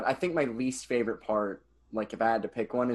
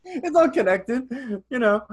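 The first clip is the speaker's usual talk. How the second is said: high laughing echo; 12 semitones higher, 4 dB louder than usual. Real, not acted. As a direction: giggle it back. Echoing joke, laughing.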